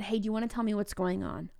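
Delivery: soft, calm and open, no pressure; gentle question. Shown as a demonstration. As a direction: ask it gently so the kid can open up. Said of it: "I said".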